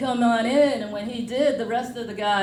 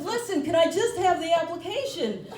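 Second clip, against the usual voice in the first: high, building to a loud comic plea; desperate wannabe begging, played for laughs; mock pleading; 8 semitones higher, 4 dB louder than usual. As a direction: beg to be let in, hammed-up. Comic begging to join club.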